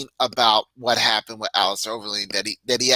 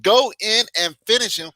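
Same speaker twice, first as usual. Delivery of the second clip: higher-pitched urging, a held-back yell; retold mild yell; 9 semitones higher, 3 dB louder than usual. Fan urging a fighter on through the screen, mock half-yell. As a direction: recreate a near-yell at the screen, high and urgent. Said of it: "almost started yelling at the screen".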